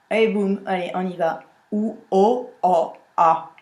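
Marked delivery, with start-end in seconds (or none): 1.7-3.5 "o, a" with the A sinking to the back; vowels done wrong. Shown as a demonstration. Coach shows the faulty vowel line again. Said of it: "Ou si je fais deux O".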